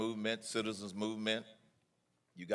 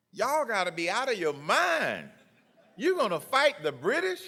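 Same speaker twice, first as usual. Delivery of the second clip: mocking sceptic; 12 semitones higher, 8 dB louder than usual. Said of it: "some people who probably said".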